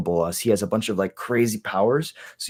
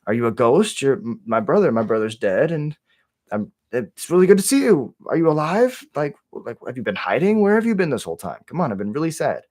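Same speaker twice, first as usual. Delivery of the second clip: shocked, overjoyed disbelief; 4 semitones higher than usual. Retold or imitated. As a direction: voice jumps high and bright in disbelief, with shocked questions tumbling out. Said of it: "He's like".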